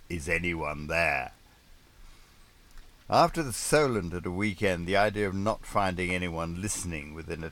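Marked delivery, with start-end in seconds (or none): 0.1-1.3 plaintive begging. Retold or imitated.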